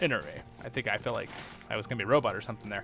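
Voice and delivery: ordinary talk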